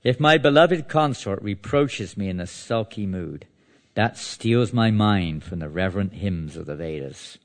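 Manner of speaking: measured, declamatory verse reading; scripture reading. Acted. Teacher reading verses to listeners, scripture reading. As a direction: read the verse out to a congregation.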